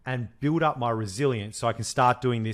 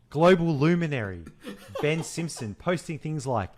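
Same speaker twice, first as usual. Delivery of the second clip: mock grand quoting through laughter; laughing mockery. Teasing cohost about his guru tweets, laughing. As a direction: giggle while sending up his posts. Mocking friend's thought-leader posts.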